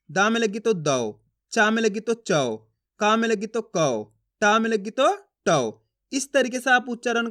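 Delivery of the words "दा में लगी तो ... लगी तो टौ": slow demo with a long, open au at each syllable's end; stressed au vowel. Shown as a demonstration. Teacher showing learners the au vowel sign, stressed and drawn out. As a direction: lean on the au in दौ, चौ, कौ, टौ, drawn out and falling. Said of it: "जोर लगाना है इसके उच्चारण में".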